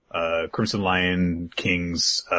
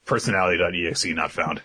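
robot voice; faster than usual. Retold or imitated. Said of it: "Robo Yuno".

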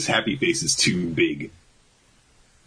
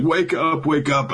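high, imitated dream cry; retold urgent plea; 10 semitones higher than usual. He holds the corpses together, mock urgent high plea. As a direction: act out a pleading wake-up call, pitched high.

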